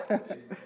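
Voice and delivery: short, soft chuckle. Real, not acted. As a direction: let out a small amused laugh. Laughs at audience's answer.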